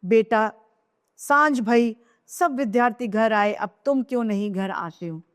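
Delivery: a mother calling her son home from afar; calling loudly. Acted. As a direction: raise the voice to call across the village. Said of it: "वो जोर से".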